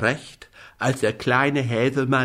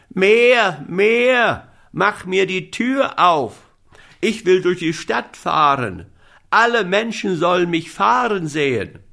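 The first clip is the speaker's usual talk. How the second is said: high loud cries fading to eager demands; shouting; 6 semitones higher, 4 dB louder than usual. Acted. Little boy demanding the moon open the door, shouting. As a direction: start yelling, then keep pushing higher than usual. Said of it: "schrie Häwelmann".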